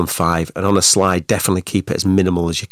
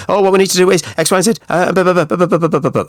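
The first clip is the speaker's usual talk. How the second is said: a nervous presenter gabbling at speed; high, fast nervous gabble; nervous rushed talking; 10 semitones higher, 3 dB louder, faster than usual. Shown as a demonstration. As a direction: rattle it off high and fast, far too fast. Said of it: "you're talking like this".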